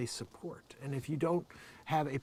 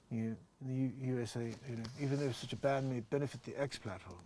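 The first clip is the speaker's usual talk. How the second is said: Elon Musk impression; 5 dB quieter than usual. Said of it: "that's my best Elon Musk impression".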